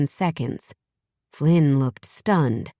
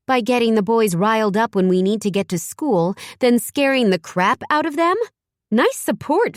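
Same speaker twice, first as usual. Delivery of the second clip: angry retort; 6 semitones higher than usual. A narrator's reading. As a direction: tear into him, building in anger. Mother scolding the father angrily.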